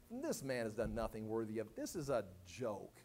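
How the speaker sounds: low, soft, unimpressed verdict; dismissive. Acted. Pilate hearing the case against Jesus, dismissive. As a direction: wave the case away quietly.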